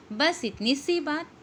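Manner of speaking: सी lifted and held; stress on सी. Shown as a demonstration. Teacher reading an example to her students, stress on सी. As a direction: make सी the peak of the phrase. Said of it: "सी शब्द निपात है".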